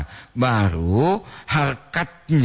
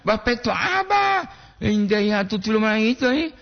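calling out; 8 semitones higher than usual. Real, not acted. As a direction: shout the question across the room. Calling out a question to someone. (berseru keras bertanya)

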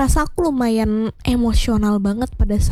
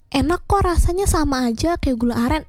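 mock-insistent, starting high then dropping; pushy insistence; 5 semitones higher than usual. Waitress insisting the syrup tastes the same, mildly pushy. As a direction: imitate a pushy reassurance, pitched up at first. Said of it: "dia maksa banget buat minum".

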